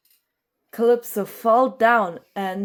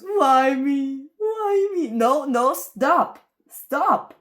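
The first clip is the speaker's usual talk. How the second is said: high, loud, frantic begging; desperate pleading; 5 semitones higher, 5 dB louder, slower than usual. Acted. Calypso begging her cave mates to leave her alone, frantic. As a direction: cry out as if cornered and scared.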